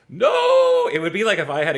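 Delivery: a sudden loud, high cry of protest; a dismayed father shouting down his son; shouted no. Acted. Father Bach shouting in horror at his son's style.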